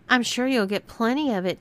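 high, mocking tease; teasing. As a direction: needle her with a smirk. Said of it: "teased Karen".

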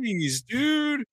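high, taken-aback mock exclamation; stunned jeez. Retelling his reaction to the suit salesman, mock stunned. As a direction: imitate being thrown by the rebuff.

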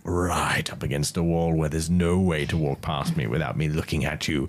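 lightly put-on British accent for a keen battler; a hint of a British trainer's voice; British-accented fighter impression. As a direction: play the challenger with a measured, slightly British accent. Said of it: "that's my impression of him".

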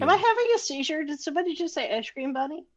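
incredulous. Real, not acted. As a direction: blurt it out in mock shock. Mock shock at hearing film title.

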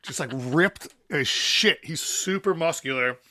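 put-on loud, high, hearty German accent; a big friendly German welcome. Imitating the tattoo shop owner, loud and hearty German accent. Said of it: "these German accents are great".

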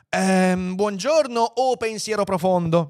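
hesitant, high-pitched greeting; nervous. A narrator's reading. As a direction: greet a great authority timidly. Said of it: "gli si rivolse nervoso Lunk Walvl". (saluto nervoso ed esitante)

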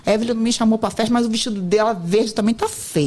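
fast, petty, half-laughing mock sulk; childish sulk. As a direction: rattle it off like a jealous kid. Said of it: "Aí eu fico com raiva e falo assim".

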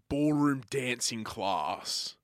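ordinary talk

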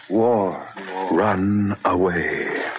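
drawn out, haunted echo; ghostly slow repeat; slow echoing whisper. Acted. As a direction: let it hang slowly in the air. Haunted echo in his mind.

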